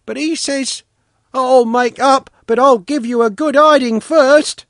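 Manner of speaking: put-on little boy's high, indignant wailing complaint; offended wail. A narrator's reading. Sanka denying he's a bourgeois, wailing in hurt protest. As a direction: pour out grievances in a high, loud child's voice. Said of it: "Sanka wailed, deeply offended".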